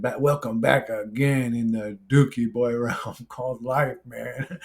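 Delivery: slow imitated African-accented intro, slightly amused. Vlogger parodying another YouTuber's intro, slow imitated African accent. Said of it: "I think I imitated him".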